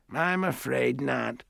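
put-on high, slow old-lady refusal; prim great-aunt, declining. A narrator's reading. Great-aunt turns down the offered cookies, primly refusing. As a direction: decline slowly in an elderly voice.

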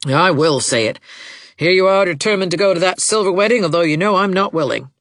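put-on insistent old woman, indignant and accusing; peevish matriarch digging in; querulous mother, defiant. A narrator's reading. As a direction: scold your daughter as a stubborn martyr.

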